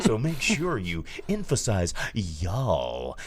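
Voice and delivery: mock coach drawing out "y'all"; careful, stretched "y'all" in a mock lecture; emphasize Y'ALL. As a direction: slowly lean on "y'all" as its own word. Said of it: "y'all is common vernacular here".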